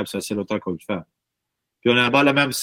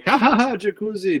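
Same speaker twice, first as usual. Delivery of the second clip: mocking the crowd; 9 semitones higher than usual. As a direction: play the crowd begging for the goofy song, much higher. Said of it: "Ben, le monde voulait un". (imitation moqueuse du public, voix aiguë et forte)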